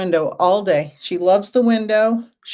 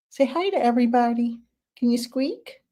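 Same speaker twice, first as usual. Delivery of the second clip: higher-pitched cat talk; sweet, raised pet voice; coaxing a pet; 5 semitones higher than usual. Real, not acted. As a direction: coax the cat to speak up for an audience. Coaxing her cat to meow.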